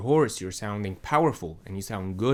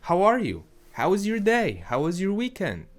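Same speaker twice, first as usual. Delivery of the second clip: much higher and louder, chirpy-polite hello; high friendly greeting; 9 semitones higher, 5 dB louder than usual. Shown as a demonstration. Voice coach demonstrating the raised daytime greeting voice, high and loud. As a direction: pitch it way up to sound friendly. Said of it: "you start to use higher pitches".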